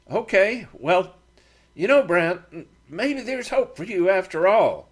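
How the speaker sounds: ribbing his partner; Matt, teasing. A narrator's reading.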